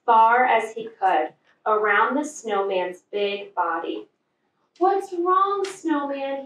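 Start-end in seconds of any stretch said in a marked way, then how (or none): 4.8-6.5 gentle. A narrator's reading. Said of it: "he asked gently".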